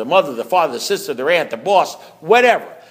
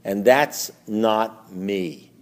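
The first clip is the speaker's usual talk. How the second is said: slow wondering quote; 6 semitones lower, 3 dB quieter, much slower than usual. Retold or imitated. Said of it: "They'll say".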